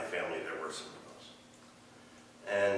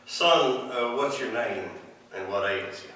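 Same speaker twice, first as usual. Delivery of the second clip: put-on Southern preacher accent; 3 semitones higher, 4 dB louder, slower than usual. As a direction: play the Southern revival healer calling a man forward. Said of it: "all healers have southern accents".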